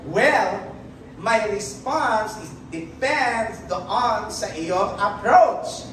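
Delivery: slow, smug self-justifying; mock excuse. Preacher mocking someone blaming others, slow and smug. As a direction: drawl out the lame excuse. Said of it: "Hindi mo pwede sabihin eh".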